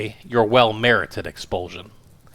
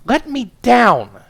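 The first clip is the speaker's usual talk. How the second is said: high, slow, much louder wail; 14 semitones higher, 9 dB louder, much slower than usual. Acted. Wife stuck on the pedestal wails at husband. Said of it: "she wailed".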